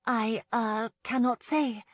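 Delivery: high, hesitant and evasive; falter, pitched well above normal; nervous young woman dodging the question; nervous murmur. A narrator's reading. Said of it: "she murmured".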